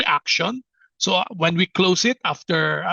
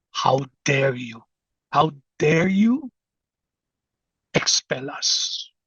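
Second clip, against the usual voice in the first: low, dark, heavy, growling demon voice; 4 semitones lower than usual. Retelling a prayer session, quoting the demoniac's words in a growling demon voice. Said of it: "in a growling voice".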